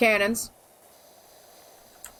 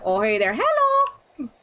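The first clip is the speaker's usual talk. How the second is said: slow Minnesota tune-up; slower than usual. Shown as a demonstration. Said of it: "get into the Minnesota accent".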